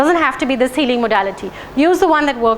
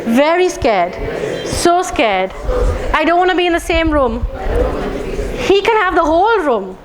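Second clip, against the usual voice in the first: repeated scared phrases, half laughing; mock fear; 3 semitones higher than usual. Shown as a demonstration. Tapping the friend's lizard fear, hamming it up. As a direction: act out being terrified. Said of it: "Do it with me".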